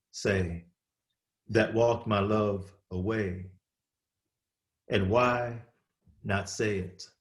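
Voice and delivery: measured reading, phrase by weighted phrase; poem recitation. Acted. Poet reading his confessional poem to an audience, deliberate recitation. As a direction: let each image land, pausing between lines.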